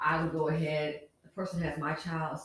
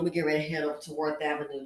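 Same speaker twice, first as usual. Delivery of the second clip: fast; 3 semitones lower, faster than usual. Shown as a demonstration. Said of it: "Trust me, Simply Said, I know what's up".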